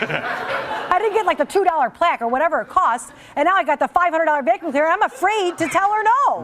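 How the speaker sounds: laughing panic. Real, not acted. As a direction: giggle out the fear of saying no. Panicking at the vacuum price.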